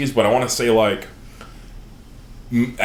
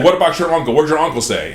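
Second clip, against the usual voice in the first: higher, louder pointed question; gruff dwarf demand; 5 semitones higher, 3 dB louder, faster than usual. Retold or imitated. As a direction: press the boy hard about his uncle. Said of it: "He's like".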